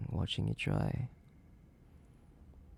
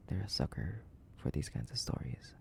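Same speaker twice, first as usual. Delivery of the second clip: soft, low whispered aside; low whisper, sharing a secret; conspiratorial whisper; 5 semitones lower, 10 dB quieter than usual. Acted.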